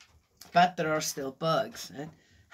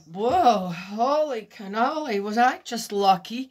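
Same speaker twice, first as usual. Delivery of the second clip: louder startled exclamation; 4 semitones higher, 5 dB louder than usual. Retold or imitated. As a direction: gasp it out, shocked. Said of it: "I'm going".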